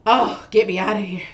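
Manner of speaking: imitating a worn-out patient, loud groaned opening; exhausted. Mother to the doctor asking her to breathe, exhausted. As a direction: play a mildly exasperated, exhausted patient. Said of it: "it was exhausting to even say that".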